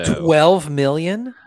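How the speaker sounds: slow, high, loud astonished echo; shocked disbelief. Real, not acted. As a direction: stretch it out in amazement.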